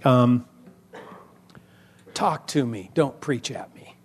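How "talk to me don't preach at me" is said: conversational. Shown as a demonstration. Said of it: "talk to me just like".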